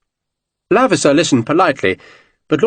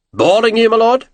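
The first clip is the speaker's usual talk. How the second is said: growled; 10 semitones higher, 3 dB louder than usual. Acted. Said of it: "Baird growled".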